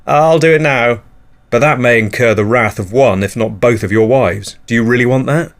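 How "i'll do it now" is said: weak promise. Acted. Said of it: "you blumber weakly".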